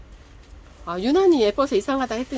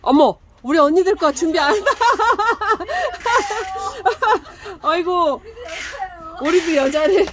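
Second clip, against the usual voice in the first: laughing; 8 semitones higher, 4 dB louder than usual. Real, not acted. Laughing banter with staff.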